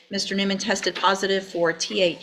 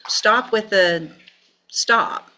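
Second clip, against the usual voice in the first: firm, louder command with pauses; exasperated scolding; 2 semitones higher, 5 dB louder, slower than usual. Real, not acted. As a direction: cut off the excuses sternly. Judge scolds the defendant.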